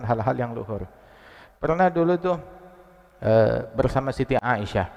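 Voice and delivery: usual speaking voice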